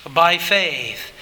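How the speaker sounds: "by faith" said low and firm, falling; stress on by faith. Shown as a demonstration. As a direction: press on "by faith". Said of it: "the emphasis on the last two words".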